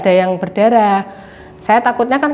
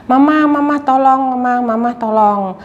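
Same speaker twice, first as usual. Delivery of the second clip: put-on pleading child; 4 semitones higher than usual. Mother voices her crying child.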